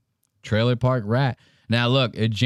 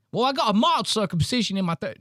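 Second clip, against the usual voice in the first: high-pitched whiny Australian-style excuse; mock pleading husband; 8 semitones higher than usual. Comic voices James explaining to his wife, mock pleading.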